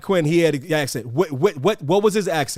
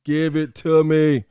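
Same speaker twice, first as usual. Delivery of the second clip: insistent demand; 5 semitones lower than usual. Real, not acted. Repeated demand for actor names.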